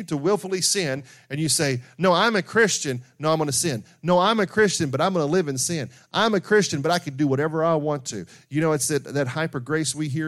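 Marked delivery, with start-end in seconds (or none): 2.0-8.3 defiant sinner. Retold or imitated. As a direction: sneer it out like a sinner who thinks he is safe.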